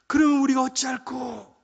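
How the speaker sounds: loud, high, drawn-out plea; crowd crying out. Acted. Preacher acting the people responding to Peter, loud drawn-out cry. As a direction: wail the question slowly as a crowd. Crowd's alarmed question, acted.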